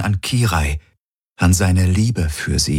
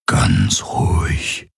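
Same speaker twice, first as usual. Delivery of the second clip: whisper; much slower than usual. A narrator's reading. Hawks calming Garland again, in a whisper. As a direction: hush him, barely voiced. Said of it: "flüsterte er".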